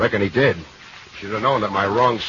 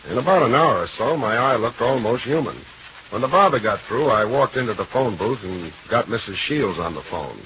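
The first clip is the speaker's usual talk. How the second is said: noir narration; 2 semitones higher than usual. Acted. Detective narration over music.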